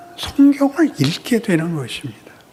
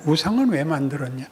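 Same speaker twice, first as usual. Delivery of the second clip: God questioning; 3 dB louder than usual. Acted. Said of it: "하나님이 거꾸로 얘기하는 거예요".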